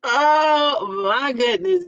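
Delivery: slow, high, teary laugh through the words; melting with laughter; laughing cry. Real, not acted. Host overcome laughing at a comment, slow teary oh my goodness. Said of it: "This just tickled me".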